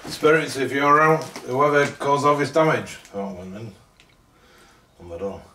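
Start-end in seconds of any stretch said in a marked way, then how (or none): 0.1-3.0 higher, projected address; calling out to spirits. Real, not acted. Investigator addresses whoever caused the damage, calling out. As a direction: call to unseen listeners in the room.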